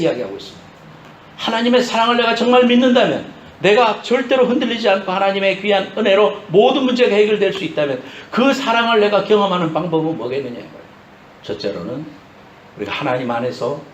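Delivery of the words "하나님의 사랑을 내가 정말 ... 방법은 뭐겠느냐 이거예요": raised-pitch sermon delivery; impassioned preaching. Real, not acted. Preacher to congregation on truly believing God's love, impassioned preaching. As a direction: preach it with rising conviction.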